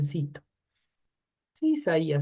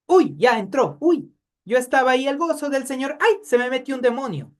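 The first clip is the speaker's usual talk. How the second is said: mock believer; 5 semitones higher, 4 dB louder than usual. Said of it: "no funciona de esa manera".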